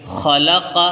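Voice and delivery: خلق as three short syllables, kha-la-qa; short vowels. Shown as a demonstration. Teacher showing short harakat, خلق without any stretch. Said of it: "یہ تینوں حرف جلدی پڑھے جائیں گے".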